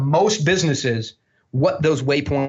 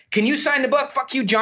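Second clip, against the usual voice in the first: high-pitched autograph request; upbeat, high retold voice; imitated cheeky fan; 9 semitones higher than usual. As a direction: play the next fan in line, jokily. Acted next fan at signing.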